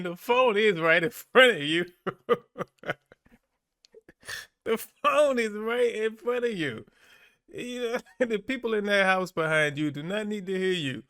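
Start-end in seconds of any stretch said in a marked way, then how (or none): 0.0-1.9 laughing scold about his volume; raised voice. Real, not acted. Tells host he's too loud. 4.6-6.8 higher, amused rebuke; teasing repeat. Real, not acted.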